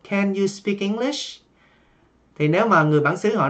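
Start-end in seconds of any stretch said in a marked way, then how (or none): 0.1-1.4 "Can you speak English?" slow, rising at the end; slow question, lift it at "English"; rising question tune. Shown as a demonstration. Teacher showing the rising question intonation, slow. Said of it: "Chúng ta sẽ lên giọng ở cuối câu".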